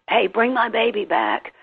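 a hint of a cow pleading; pleading mother cow. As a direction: lightly voice a mama cow begging for her calf. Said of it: "as if pleading".

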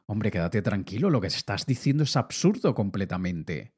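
reassuring a friend. Retold or imitated. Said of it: "le digo".

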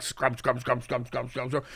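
bored. Retold or imitated. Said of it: "Normal toothbrushing, you're just like".

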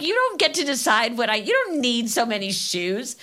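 high teasing imitation of the kids; bossy kid. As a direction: mimic a know-it-all child. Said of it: "I'm like".

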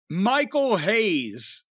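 "Michael Hayes" drawn out very slowly, each name weighted; dramatic announcement. Real, not acted. Telling his co-host about Rock's first night, a slow dramatic "Michael Hayes".

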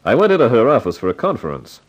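first-person detective narration over music; story narration. Acted. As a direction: set the scene like a hard-boiled narrator. Narrator recounts next morning.

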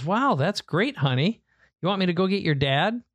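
a hint of a pleased mother on the phone; imitating his mom. Mom's reply voiced in story.

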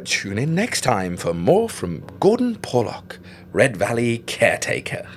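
slow, grand announcer voice; radio announcer sign-off. Acted. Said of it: "Nah, that was shit".

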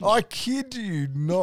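laughing high, slow insistence. Real, not acted. Insisting the bath story is true, laughing. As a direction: push through the laugh, insisting it's true.

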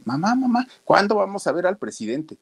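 put-on pleading child voice, pitched very high; whiny little boy. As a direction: nag mama like a small kid. Boy nagging his mother.

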